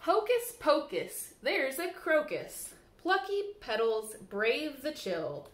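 lilting, sing-song storybook reading; bouncy picture-book read-aloud; reading to children. Acted. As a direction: read the rhymes to little ones at storytime.

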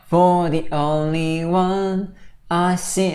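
"For the only one I see" as one slow connected group; linked words. Shown as a demonstration. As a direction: slowly run "For the only one I see" together. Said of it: "자, 이렇게 묶어주세요". ("For the only one I see"를 천천히 묶어서)

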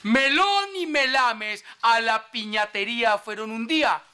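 hammed-up declamation, rising on the last line; verse recital. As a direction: recite it like grand poetry. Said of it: "que versa así". (recitando versos con solemnidad exagerada)

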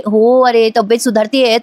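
slow, put-on feeble reply; fake weakness. Priya faking weakness for Ashwin. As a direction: pretend to be still poorly. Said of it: "नाटक करायला लागते".

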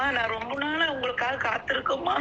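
tearful caller pleading; speaking through real tears; choked-up plea to amma; crying. Real, not acted. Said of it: "சரி, அழாதீங்க".

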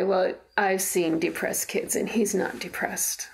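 mildly condescending, measured certainty; all-knowing doctor. Retold or imitated. Doctor dismissing a mother's worry about her son, all-knowing. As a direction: imitate a doctor who knows best. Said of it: "she said in an all-knowing way".

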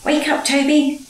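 smiling. A narrator's reading. Driver wakes Toby from his doze, smiling. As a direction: rouse him with a smile in the voice. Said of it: "smiled his driver".

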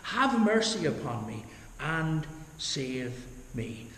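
"Have mercy upon me and save me" drawn out slowly, word by word; slow, deliberate plea; slow prayer. Shown as a demonstration. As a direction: pray it slowly as the sinner's prayer. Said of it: "That's the sinner's prayer".

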